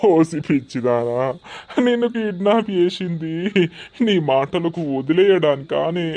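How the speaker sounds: put-on drunken villain. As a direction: threaten the captive. Villain voice held.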